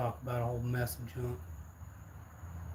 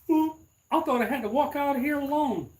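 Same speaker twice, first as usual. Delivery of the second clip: 1 mock scared voice; 11 semitones higher, 5 dB louder than usual. Mocking nephew's fear.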